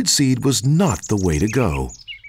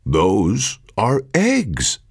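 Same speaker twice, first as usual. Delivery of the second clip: slow, drawn-out, patient explaining; slow Cody voice; 3 semitones lower, much slower than usual. Acted. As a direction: stretch each word out calmly.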